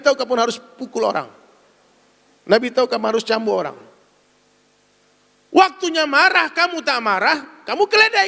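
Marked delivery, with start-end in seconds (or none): 5.5-8.3 fiery sermon call to anger; fiery preaching. Real, not acted. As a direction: preach with rising fury.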